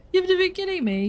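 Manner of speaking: can't believe what she's hearing; disbelief. Retold or imitated. Confronting the cheating ex about the flight, high disbelief. Retelling her reaction to him.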